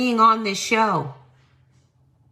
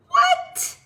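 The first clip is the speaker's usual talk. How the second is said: incredulous what. Real, not acted. Disbelief at the video.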